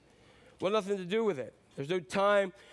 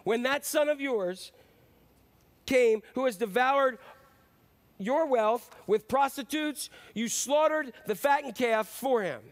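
resentful complaint; 4 semitones higher, 4 dB louder, slower than usual. Acted. Son angrily complains to father.

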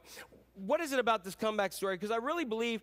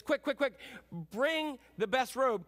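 raised, urgent orders to the servants; eager father; 5 semitones higher than usual. Retold or imitated. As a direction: hurry them along, full of joy. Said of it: "He says".

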